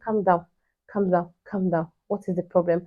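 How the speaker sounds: gently hushed reassurance; retold soothing. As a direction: imitate a friend calmly settling someone down. Friend soothes the crying mother.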